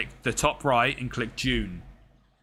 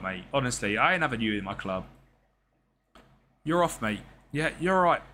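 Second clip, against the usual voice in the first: mock angry manager; 2 semitones higher than usual. Manager tearing into his player.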